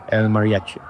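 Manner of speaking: "El Mariachi" said the Spanish way, attempted; Spanish pronunciation. Real, not acted. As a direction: try "El Mariachi" with Spanish sounds. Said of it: "Sorry for my Spanish pronunciation".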